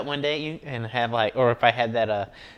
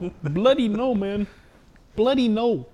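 high, loud mock accent, bloody stretched; hammed-up copy of the clip's accent; imitated South Asian accent; 10 semitones higher, 3 dB louder, slower than usual. Friend mimicking the clip's man, high loud mock accent. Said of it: "if I had that accent".

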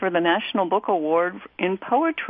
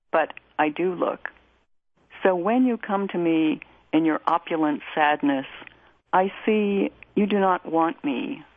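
measured, even poetry recitation; unhurried, restrained verse reading; poem reading. Acted. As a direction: read the poem with deliberate pauses between phrases. Reads a poem aloud.

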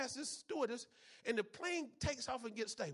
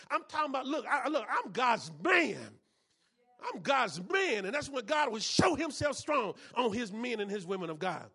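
emphatic preaching; 4 dB louder than usual. Real, not acted. Preacher builds to a shout.

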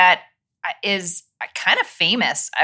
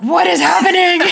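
high, loud bewildered mother; the mom thrown by the Southern voice; baffled mother; 11 semitones higher, 6 dB louder than usual. Retold or imitated. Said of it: "my mother was like".

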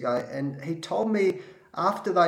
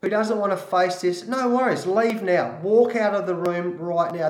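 higher, louder, forceful retelling; firm challenge; 4 semitones higher, 3 dB louder than usual. Retold or imitated. Coach challenging players to face the loss, raised and forceful. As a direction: dare the room to walk out, raising the voice. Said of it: "I said".

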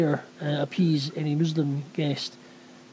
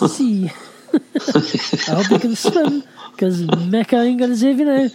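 slow, laughing, louder mockery; laughing taunt; 4 semitones higher, 4 dB louder, slower than usual. Real, not acted. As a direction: taunt them through laughter.

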